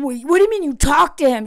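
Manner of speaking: quick, defensive imitation; hurried mock indignation; mock accusatory. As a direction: challenge her, imitating a touchy husband. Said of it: "He gets so accusatory and defensive".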